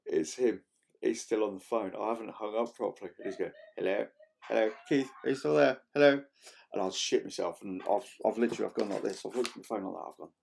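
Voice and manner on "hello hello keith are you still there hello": rising, louder calls of hello, climbing to a shout; client calling out. Retold or imitated. Client calling down the phone for Keith, louder and louder hellos. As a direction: call down the line, unsure anyone's there.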